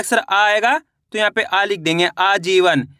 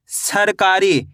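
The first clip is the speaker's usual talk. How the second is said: सरकारी drawn out slowly, सर then कारी; slow sounding-out; much slower than usual. Shown as a demonstration. Teacher sounding out a word for spelling, slow and stretched. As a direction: stretch each part of सरकारी so every sound is heard. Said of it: "शब्द का उच्चारण सुनना है".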